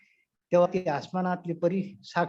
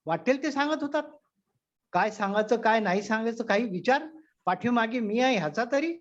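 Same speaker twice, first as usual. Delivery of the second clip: scolding wife; 4 semitones higher than usual. Retold or imitated. Wife scolds her husband.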